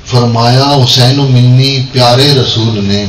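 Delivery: measured devotional Urdu couplet recital; verse delivered line by line; poem recitation. Acted. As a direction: recite the couplet to a gathering, falling at the close.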